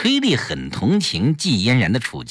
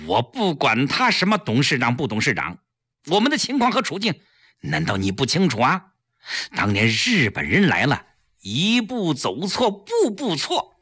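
stern rebuke. Acted. 丈夫厉声训斥妻子，越说越激动. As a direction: scold her, building to a yell. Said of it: "胡威厉声说道".

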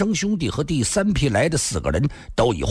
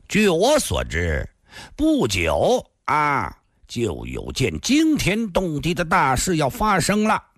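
drawn-out, portentous opening; word by word; 3 semitones higher, slower than usual. Acted. Thin man warning of a great event, word by word. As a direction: stretch out the first phrases deliberately. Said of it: "一字字说道".

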